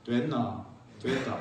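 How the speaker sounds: terse low Gyeongsang clip; Pohang dialect. Retold or imitated. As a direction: clip it short like a Pohang local. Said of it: "포항 사람들은 어떻게 하는 줄 아세요?".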